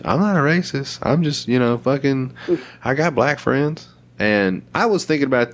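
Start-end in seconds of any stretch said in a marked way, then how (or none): 0.0-3.9 imitating a defensive denial, pitched up; lightly mocked self-justifying plea; mock defensive speech. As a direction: protest your innocence, fumbling for proof. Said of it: "I'm not a racist" speech".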